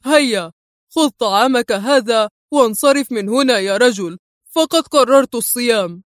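dismissive, looking down on him; lightly haughty dismissal. Acted. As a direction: send the man away with mild contempt. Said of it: "مستطردا في تعال".

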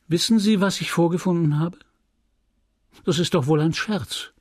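lightly voiced affronted woman; indignant customer. A narrator's reading. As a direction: confront him in disbelief. Emma confronts the merchant.

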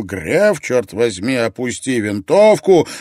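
loud, insistent command; urgent yell. A narrator's reading. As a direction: shout to stop him. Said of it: "Шарфюрер завопил".

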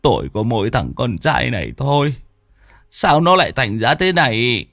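a touch of tears in his voice; understated tearful father's plea; mildly choked-up father. Acted. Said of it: "Ông Tính rơm rớm nước mắt".

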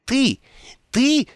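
sputter, too furious to finish; sputtering rage. Acted. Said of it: "Ом яростно замолотил".

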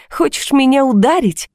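high, taunting question; mocking. A narrator's reading. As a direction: dare them with open mockery. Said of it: "спросила я насмешливо".

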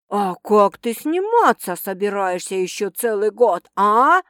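gruff yell ending on a loud "а"; angry yell. Acted. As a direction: shout him down angrily. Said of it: "гневно орёт Ольховский".

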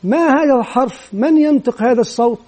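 a touch of teacher prompting; teacher quizzing children. Acted. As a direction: ask a class of young pupils. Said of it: "وأسأل مثلًا أطفالي".

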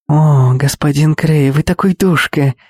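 flirt like a sugary cartoon princess; chirping. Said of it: "прощебетала Кэти".

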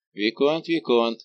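«Виконт» выкрикнуто дважды, громче во второй раз; окликнуть гневно, с нарастанием; громкий возглас. Acted. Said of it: "воскликнул Девард". (возмущённый окрик «Виконт, виконт!»)

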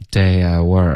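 slow "day at work" with the gap after "at" missing; wrong, no stop. Shown as a demonstration. Teacher echoing the mistake, "at" sliding into "work". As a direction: drag "at" into "work" without the held t. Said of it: "这样不行".

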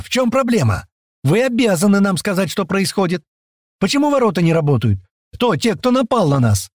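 indignant woman. A narrator's reading. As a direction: demand answers, outraged. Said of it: "снова возмутилась эта тётка".

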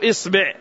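إصبع said "isbi'", i in both syllables; kasra on both. Shown as a demonstration. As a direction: say إصبع with short i after hamza and ba. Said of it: "أنك إذا قلت".

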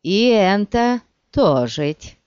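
lisping thug. Acted. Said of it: "сказал шепелявый".

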